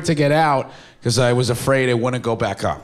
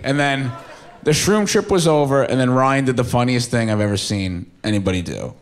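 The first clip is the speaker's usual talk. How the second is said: normal talking voice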